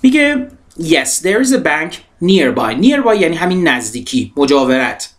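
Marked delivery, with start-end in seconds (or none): 0.8-2.8 slow model reading. Shown as a demonstration. Teacher models English sentence.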